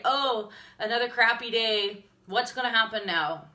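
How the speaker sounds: mock complaining. Quoting her old posts to viewers, exasperated. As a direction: re-enact an old grumble, with emphasis.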